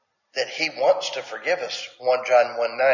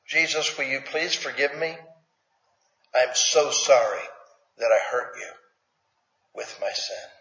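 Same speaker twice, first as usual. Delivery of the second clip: soft, humble plea that sinks quieter at the end; repeated sincere prayer; 4 dB quieter than usual. Shown as a demonstration. Preacher repeating the confession prayer for the church, soft and humble. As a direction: say it again gently, meaning it. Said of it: "How about if we say that".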